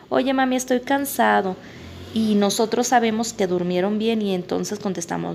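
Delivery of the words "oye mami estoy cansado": lightly voiced child, a bit higher; playing the tired kid asking mom. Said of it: "Que les dicen".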